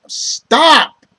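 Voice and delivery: sudden high, loud command; shouted stop. Retold or imitated. Peter finally yelling at Ock to stop, high and loud. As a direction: bark it out to halt him. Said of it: "And he finally says".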